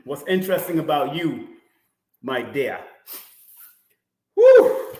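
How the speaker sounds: ordinary delivery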